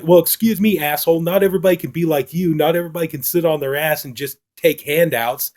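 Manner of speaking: imitating someone pissed off, pitch lifted. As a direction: act out her annoyed retort without raising the volume much. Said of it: "pretty pissed off at that".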